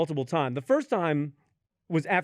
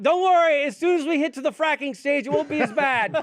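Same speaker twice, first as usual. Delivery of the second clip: mock reassuring doctor; 5 semitones higher than usual. Doctor cheerfully reassuring the patient mid-procedure, hammed up. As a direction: sell the bad news cheerfully. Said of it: "they're like".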